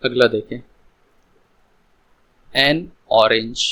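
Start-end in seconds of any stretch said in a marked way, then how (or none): 2.6-3.6 slow example. Shown as a demonstration. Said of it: "देखो यहाँ पर ओ वॉवेल्स है".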